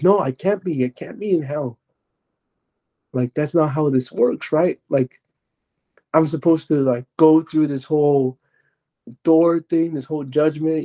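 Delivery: arguing. Retold or imitated. Storyteller argues with the voice about hell, protesting. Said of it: "and then I started arguing".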